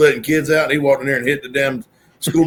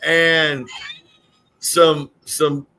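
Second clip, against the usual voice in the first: mock polite order; 4 semitones higher, much slower than usual. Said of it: "I don't even believe that one".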